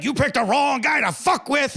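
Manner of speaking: imitating a furious high-pitched shout; freaking out. Angry guy confronts him at the club, mock freak-out. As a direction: yell it as a guy losing it, retold. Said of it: "he just freaked out".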